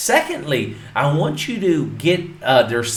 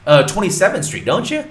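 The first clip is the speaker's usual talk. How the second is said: bright, higher and louder friendly greeting; cheery cold call; 6 semitones higher, 6 dB louder than usual. Shown as a demonstration. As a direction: call James like an old buddy. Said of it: "Throw in some laughs in there".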